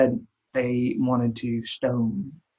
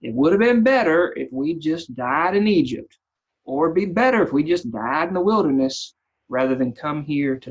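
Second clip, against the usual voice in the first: louder, bitter sneer at the start; the grumbling people mocking Moses, sneering; sneering complaint; 4 dB louder than usual. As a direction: sneer it at Moses like an ungrateful crowd. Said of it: "imagine the sneer in somebody's voice saying".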